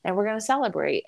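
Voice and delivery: high-pitched, pleading reassurance, retold; tearful pep talk. Wife rallying crying husband at drop-off, high tearful pep talk. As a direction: act out rallying someone while holding back tears. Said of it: "he was crying. And I was just like".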